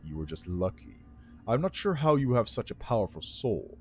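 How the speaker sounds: bitter. A narrator's reading. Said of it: "says with some bitterness".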